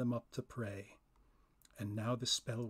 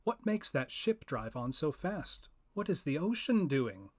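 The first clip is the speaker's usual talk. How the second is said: higher, louder, urgent questioning; first spirit asking; 4 semitones higher, 3 dB louder than usual. Acted. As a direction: press the other spirit for an answer.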